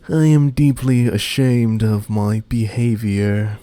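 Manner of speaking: lightly voiced, slow, formal servant; bow and address Monsieur M slowly, with polite courtesy; a hint of a stiff butler. Plays a formal butler character.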